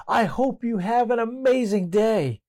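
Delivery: high, cheerful call into the woods; yelling out. Retold or imitated. Child yells a kind wish into the woods, high call. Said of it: "he decided to yell out".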